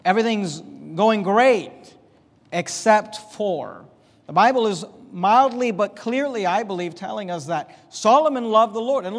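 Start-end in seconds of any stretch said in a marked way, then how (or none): 2.5-3.8 "except for." slow and weighted; hanging "except for."; drawn out slowly. Shown as a demonstration. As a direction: stretch out "except for." and leave it hanging. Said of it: "the idea is that".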